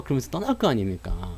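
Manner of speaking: ordinary delivery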